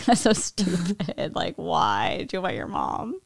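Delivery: hushed laughing whisper; breathy aside, barely voiced. Real, not acted.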